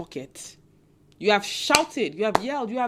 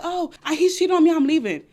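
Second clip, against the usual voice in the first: higher, louder whiny complaint; mock wronged woman; 5 semitones higher, 4 dB louder than usual. Vlogger mocking a loud heartbroken woman, higher and louder. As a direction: ham up the loud protest. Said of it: "be like".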